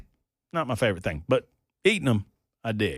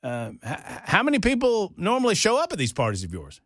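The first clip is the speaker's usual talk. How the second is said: city guy voice; 8 semitones higher than usual. Retold or imitated. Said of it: "he goes".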